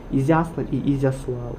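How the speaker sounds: Ізяслав said twice, the stress moved to another syllable the second time; contrasting stresses. Shown as a demonstration. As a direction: shift the accented syllable between the first Ізяслав and the second. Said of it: "Так само з наголосами".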